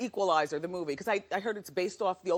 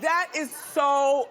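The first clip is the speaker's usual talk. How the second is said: laughing; 3 semitones higher, 5 dB louder, much slower than usual. Real, not acted. Host laughs at sound.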